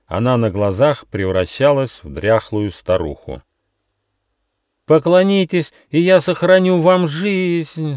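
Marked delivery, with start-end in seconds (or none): 4.9-8.0 fairy, turning into a hag, pleads; pleading cry. A narrator's reading. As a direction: beg them desperately. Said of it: "с мольбой воскликнула фея".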